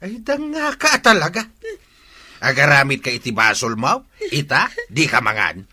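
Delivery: loud, angry berating; father angrily lecturing Jenny about her sin; angry scolding. Acted. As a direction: rain blame down on her.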